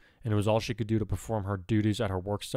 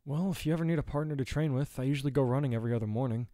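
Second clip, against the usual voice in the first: lightly voiced friend, pitched higher; friendly running friend; 5 semitones higher than usual. Boy offering to train with friend, lightly voiced.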